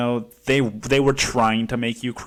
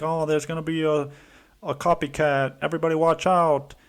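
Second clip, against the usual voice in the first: mock alarm; 6 semitones higher than usual. Mocking fearmongering press.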